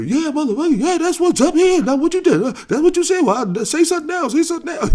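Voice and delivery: high, loud trash talk from the stands; loud mocking yell; taunting the crowd. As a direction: rub it in, yelling at the other side. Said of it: "I'm up there".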